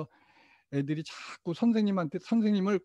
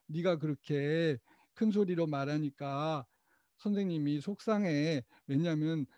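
calm I-message; 4 dB quieter than usual. Shown as a demonstration. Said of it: "이렇게 말씀을 해보세요".

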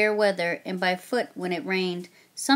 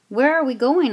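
urgent question; 5 semitones higher, 6 dB louder than usual. Acted. Boy asks anxiously on journey.

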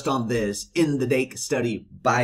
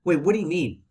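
surprised; 6 semitones higher than usual. Shown as a demonstration. Interrupting the monotone reading.

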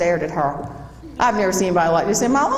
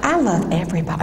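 drawling Southern belle. Retold or imitated. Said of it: "She talks like this".

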